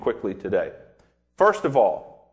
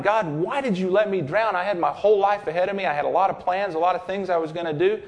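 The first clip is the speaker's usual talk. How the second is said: upset man in heaven; 5 semitones higher than usual. Retold or imitated. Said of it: "he's really upset. And he says to God".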